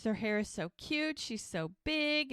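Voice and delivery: can't contain her delight; overwhelmed gushing. Retold or imitated. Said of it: "she can't handle it".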